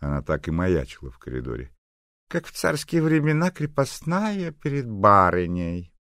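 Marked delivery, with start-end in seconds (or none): 2.3-5.9 put-on sneering old gossip. Neighbour sneers.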